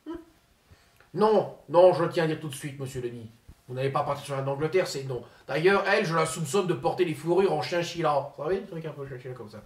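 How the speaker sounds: pompous politician impersonation; Ségolène Royal impression. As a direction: play the self-important minister, lofty and indignant.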